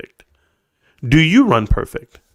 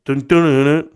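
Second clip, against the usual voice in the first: humming riff. Pretend. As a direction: hum the intro.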